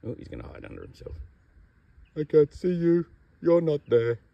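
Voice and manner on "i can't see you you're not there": high, loud cartoon snake voice building to a shriek; mock panicked snake. Handler voicing a snake hiding under itself, mock panic. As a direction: play the hiding snake, squeal on discovery.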